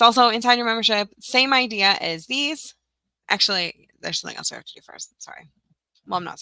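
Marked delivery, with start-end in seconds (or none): 4.0-5.5 whisper. Real, not acted. Hurried aside while working.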